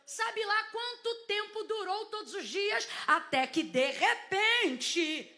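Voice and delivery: high, slow declaiming with stretched words; full-force preaching. Real, not acted. Preacher recounting Pentecost to the congregation, impassioned slow proclamation. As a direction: proclaim each phrase high, drawing out key words.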